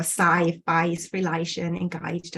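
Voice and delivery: the a in relation and engaged widened to "eye"; open face vowel. Shown as a demonstration. Lecturer giving typical Cockney examples, open face vowel. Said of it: "the open face vowel".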